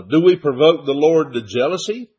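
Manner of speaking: rising question tune ending on "jealousy". Real, not acted. Preacher reads Paul's question to listeners, questioning, rising to "jealousy". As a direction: read it as a question, lifting at "jealousy". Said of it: "Big question mark".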